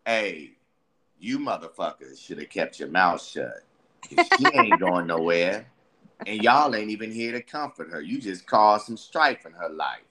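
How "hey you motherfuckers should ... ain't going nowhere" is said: a lightly voiced cold pimp, lower and unbothered; coldish pimp figure. Lightly voiced pimp telling off her friends, cold and dismissive. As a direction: talk down to them like a cool pimp. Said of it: "coldish, pimp-like figure that goes".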